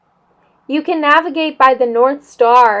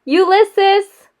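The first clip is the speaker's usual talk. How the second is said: shouted; 8 semitones higher than usual. A narrator's reading. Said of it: "shouted Flora".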